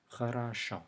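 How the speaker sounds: "Хорошо" with faint schwa, short ah, stressed final O; vowel reduction demo. Shown as a demonstration. Teacher puts the three O's together, reduced vowels then stressed O. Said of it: "each one of them is pronounced differently".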